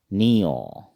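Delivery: नियो said with a rounded o ending; Assamese letter nio. Shown as a demonstration. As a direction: Assamese नियो, not Hindi ña. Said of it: "असमिया में पढ़ेंगे". (असमिया उच्चारण में नियो)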